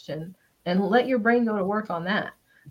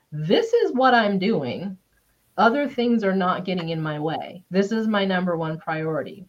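determined. Retold or imitated. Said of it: "internalized that priority to say".

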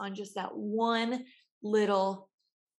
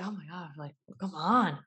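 annoyed waiter. Retold or imitated. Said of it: "One's waiter's like".

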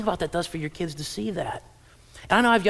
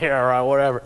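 mock brush-off, lower and louder; dismissive; 4 semitones lower, 5 dB louder than usual. Skeptical churchgoer answering the pastor's date-night advice, dismissive. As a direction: play a listener shrugging off the advice. Congregation's dismissive reply acted out.

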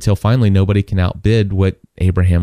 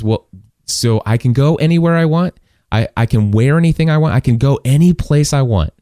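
higher-pitched, mildly amazed questions; incredulous questioning; 4 semitones higher than usual. Retold or imitated. Freed girl questions the man who bought her, mildly incredulous. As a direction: voice someone testing news too good to believe.

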